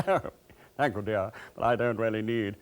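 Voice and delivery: a light put-on best English accent; posh English accent. Passenger turning down cake from the air hostess, put-on English accent. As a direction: politely decline in careful English tones. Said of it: "putting on my best English accent".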